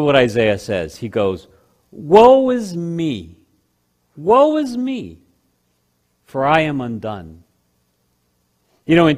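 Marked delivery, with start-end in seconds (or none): 1.9-7.4 a hint of grief-stricken prophet; cry of despair. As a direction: groan it out in dread before God. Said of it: "a passionate cry of grief or despair".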